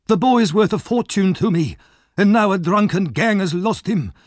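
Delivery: high, loud raging threat, slowing at the end; lost his temper. Acted. Fagin raging at Nancy, threatening Sikes. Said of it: "Fagin suddenly lost his temper".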